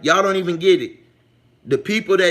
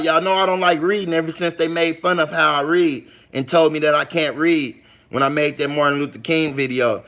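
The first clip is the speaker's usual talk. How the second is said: normal talking voice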